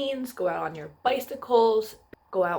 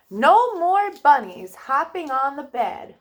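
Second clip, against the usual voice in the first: doctor's warning; 3 semitones higher, 5 dB louder than usual. Acted. Doctor voiced in kids' story.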